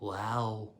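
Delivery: soft hushed wow; awed whisper. A narrator's reading. Cleaner peeking at the rocket, soft awed whisper. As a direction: breathe it out in wonder. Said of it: "he whispered to himself".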